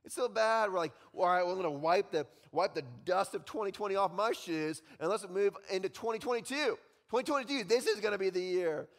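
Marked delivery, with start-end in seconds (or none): 0.0-0.7 slow, loud, drawn-out moaning about the year; mock whiny complaint. Mock complaining person in sermon. 1.1-8.9 loud, higher, upbeat resolution; mock hopeful cheer. Voicing hopeful crowd.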